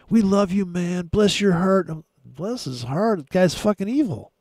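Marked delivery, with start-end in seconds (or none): 0.1-1.9 mock gushing fans. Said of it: "goobers that were like".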